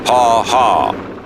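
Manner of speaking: lightly voiced bully's "haw haw"; a hint of a jeering schoolyard bully; Nelson's mocking laugh. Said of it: "Nelson said".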